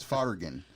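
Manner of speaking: "fargan" said as a mangled F word; garbled swearing, "fargan" for the F word; mispronounced swear word. Retold or imitated. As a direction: imitate the character's botched "fargan". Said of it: "him mispronouncing it".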